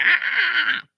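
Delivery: high, loud crying cat voice; mock cat whine, high and loud; whining cat. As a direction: wail to be let out like a trapped cat. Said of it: "go by the door like".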